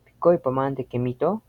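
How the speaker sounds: "Pikoi pamanante kemito" asked with the final O pushed and rising; question, strong final O. Shown as a demonstration. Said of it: "ahí es muy fuerte". (pregunta con la O final de "kemito" muy fuerte)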